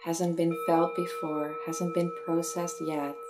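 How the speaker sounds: unhurried meditation guide, long pauses; measured guiding voice, easing off at phrase ends; guided meditation. Acted. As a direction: gently lead a listener inward, phrase by phrase.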